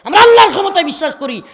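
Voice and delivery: loud triumphant refrain; rising climax. Real, not acted. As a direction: build the refrain to its peak. Repeated creed line, climax.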